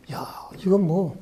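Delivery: slow hushed whisper to himself; worried whisper. Retold or imitated. Worrying alone about the country, a slow whisper. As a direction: breathe it out slowly, barely voiced. Worried thought during Gwangju unrest.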